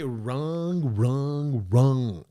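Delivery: lightly mocked repeated wrong, falling each time; a slight put-on of the man's wrong; quoting him with a hint of mockery; mock commentator drone. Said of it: "Why you gotta say".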